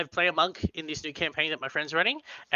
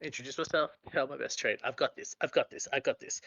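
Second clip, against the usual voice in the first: quiet nervous self-talk; nervous muttering; 6 dB quieter than usual. Acted. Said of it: "as I say that over and over as I'm walking up".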